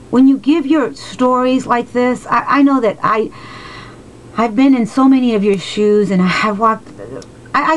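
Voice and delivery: heartfelt, choked-up sharing; real emotion pushing the voice up; emotional. Real, not acted. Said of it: "I'm sorry that I get so emotional".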